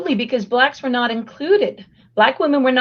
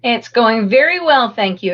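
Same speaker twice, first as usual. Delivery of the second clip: hoarse, raspy after illness; 3 dB louder than usual. Real, not acted. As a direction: speak through a raspy throat. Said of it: "Excuse my raspy voice".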